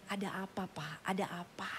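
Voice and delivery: soft, low near-whisper; gentle concern. Retold or imitated. Pastor calming a distressed husband, gentle hushed question. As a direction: ask it hushed and low, acting a counsellor.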